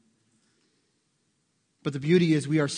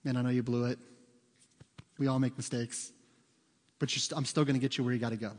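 reassuring GPS; 5 semitones lower, 7 dB quieter, faster than usual. Retold or imitated. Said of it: "the G P S is telling you".

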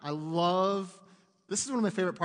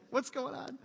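higher, softer alarmed question; mock panic; 7 semitones higher, 5 dB quieter than usual. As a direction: gespielte Panik, höher. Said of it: "I'd be like".

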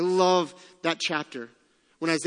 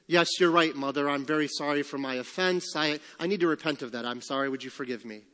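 a lightly voiced, overly polite apology, trailing off much softer; mock contrite; 4 semitones lower, 3 dB quieter than usual. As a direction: play the perfect sorry child, sarcastically. Imagined contrite apology to mother.

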